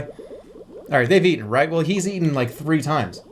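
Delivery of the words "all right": whispered aside. Real, not acted. Aside under breath.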